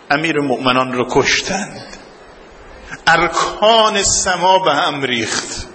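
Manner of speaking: ordinary delivery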